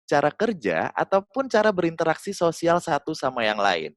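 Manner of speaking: thin and high, read the script; shrill reading. Shown as a demonstration. Coach reading the script to the audience in a shrill voice. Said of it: "coba cempreng kayak gini".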